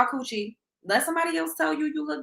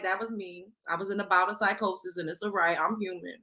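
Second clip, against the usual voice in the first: 1 lower calm mock apology; 5 semitones lower than usual. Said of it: "I'm be like".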